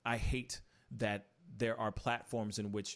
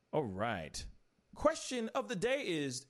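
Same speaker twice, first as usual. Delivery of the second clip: ordinary delivery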